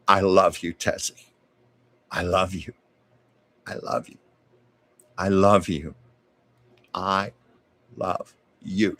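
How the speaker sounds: lightly voiced deep-voiced woman, spaced out. Mother to dying Desi on the phone, lightly deepened voice. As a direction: repeat it with varied emphasis, long pauses. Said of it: "deep voice going".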